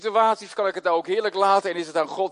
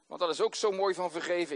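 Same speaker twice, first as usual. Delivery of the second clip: ordinary talk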